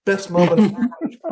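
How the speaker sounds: high, fast, thrilled squeal of joy; ecstatic gush. Retold or imitated. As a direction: gush like a starstruck fan living the dream. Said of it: "And I'm like".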